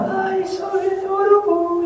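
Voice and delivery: put-on high, drawn-out gushing girls, loud; niñas embelesadas. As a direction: mimic fawning girls, squealed and stretched. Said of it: "all the girls run after me and go".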